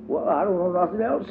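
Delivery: put-on high little girl's voice, proudly introducing herself; child voice for Dumps. A narrator's reading. Dumps tells Diddy her pretend name, high childlike voice. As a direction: pitch up for a small girl playing a grown lady.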